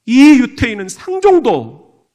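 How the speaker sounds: mild acted disgust, loud at the start; retold loathing. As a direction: voice someone else's bitter grudge. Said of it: "그러면서 치를 떤 거예요".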